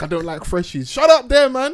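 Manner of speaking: put-on Nigerian uncle accent. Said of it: "When the freshie, when Uncle from".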